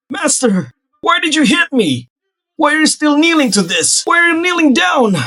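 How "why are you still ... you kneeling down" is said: high, loud indignant yell; angry shout. Acted. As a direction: demand it in outrage. Outraged at kneeling disciple.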